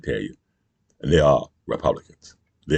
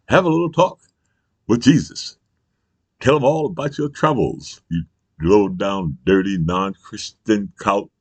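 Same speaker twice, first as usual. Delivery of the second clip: higher, preachy mock sermon; mocking preacher quote; 4 semitones higher, slower than usual. Vlogger mocks churchgoers, higher preachy voice. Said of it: "They say".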